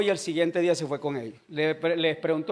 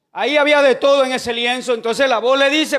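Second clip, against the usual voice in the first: raised, emphatic pulpit storytelling; preaching; 5 semitones higher, 7 dB louder than usual. Real, not acted. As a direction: proclaim the Bible story to the congregation.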